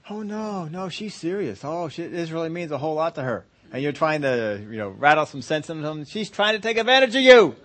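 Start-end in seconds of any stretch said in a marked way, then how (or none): 0.1-3.4 naive reply. Acted. The man the woman weeps on. 6.0-7.5 raised, higher-pitched warning to a friend; a friend yelling to wake up the fooled guy; urgent warning. Acted. Friend shaking sense into him.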